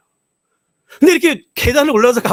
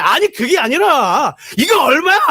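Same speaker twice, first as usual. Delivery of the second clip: shouting; 4 semitones higher, slower than usual. Retold or imitated. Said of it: "하도 소리치니까".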